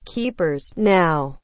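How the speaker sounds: usual speaking voice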